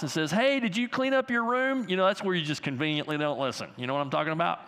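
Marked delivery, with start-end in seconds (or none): 0.3-1.9 lightly voiced mom, pitched up; a hint of a mom calling from another room. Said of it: "your mom calls from the other part of the house".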